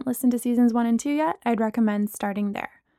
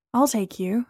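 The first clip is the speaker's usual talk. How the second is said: kindly. Acted. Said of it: "he said kindly".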